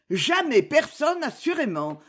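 exclamation passionnée, aiguë puis retombante; répondre avec ardeur, lentement au début; accent passionné. A narrator's reading. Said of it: "s'écria-t-elle avec un accent passionné". (élan de passion contenu)

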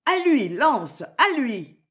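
high, loud order to the dog; urgent command. A narrator's reading. Marianne ordering her dog to attack, loud high shout. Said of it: "en s'écriant".

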